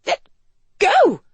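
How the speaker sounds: struggling outraged cry. Acted. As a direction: shout it in helpless outrage. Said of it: "she gasped".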